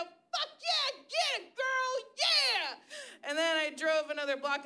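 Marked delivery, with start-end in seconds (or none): 0.0-3.3 high whooping cheer; high cheering out a car window; mock cheer. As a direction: yell it like a hype cheer. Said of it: "I yelled out the window".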